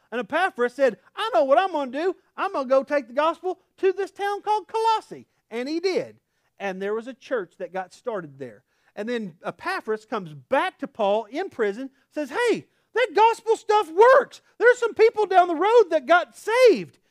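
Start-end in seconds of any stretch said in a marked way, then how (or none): 1.1-5.3 higher-pitched, enthusiastic announcement; eager resolve. Acted. Epaphras deciding to take the gospel, eagerly. 12.3-17.0 loud, high-pitched amazed report; excited Epaphras. Acted. Epaphras reporting back to Paul in prison, excitedly.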